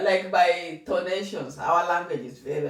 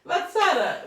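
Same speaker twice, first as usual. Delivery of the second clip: much higher and louder, laughing her name; giggling high appeal; 14 semitones higher, 7 dB louder than usual. Real, not acted. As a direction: call her out through laughter. Laughing protest at sister.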